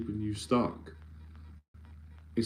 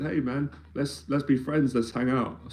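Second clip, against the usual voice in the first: light, higher-pitched friendly offer; smiling, friendly; 3 semitones higher than usual. Retold or imitated. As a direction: retell it with a smile, disarming the bully. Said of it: "I just was smiling".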